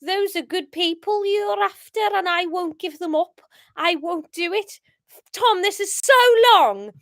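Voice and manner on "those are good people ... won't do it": put-on amateur Scouse accent, opening loud; attempted Scouse. Paul defying the gang on tape, attempted Scouse. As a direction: stand firm in a Scouse voice. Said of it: "Um, Scouse".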